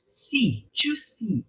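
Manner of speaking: see said as English "see"; English verb see. Shown as a demonstration. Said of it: "verbo ver".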